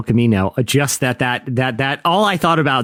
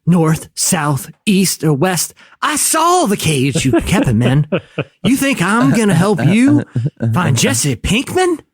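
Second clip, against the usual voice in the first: Skinny Pete as an overwrought audition piece; hammy audition read, rising to a high finish; auditioning actor; 3 semitones higher, slower than usual. Retold or imitated. Mocking the Skinny Pete clip as an audition piece, hammy and theatrical.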